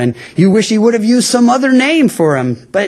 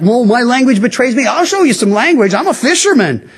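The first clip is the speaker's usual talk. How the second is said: hammed-up, climbing higher, brash cursing fisherman; mock tough fisherman; 6 semitones higher than usual. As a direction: play a cocky sailor showing off his swearing. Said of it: "I'm sure he wasn't saying it like that".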